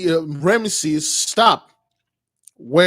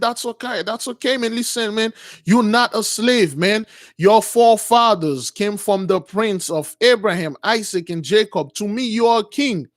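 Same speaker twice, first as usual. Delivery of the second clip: earnest reassurance; 4 semitones higher than usual. Retold or imitated. Retold friend urgently reassuring crying Moses.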